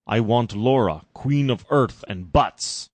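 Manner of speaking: a drawn-out villainous demand; menacing Farschnook. Acted. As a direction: savour the name.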